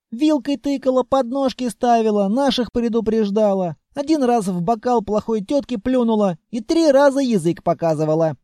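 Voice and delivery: put-on child voice. A narrator's reading. Child boasting of mischief.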